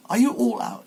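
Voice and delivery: mother duck calling her brood. Acted. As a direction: call out to check on your ducklings. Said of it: "she continued".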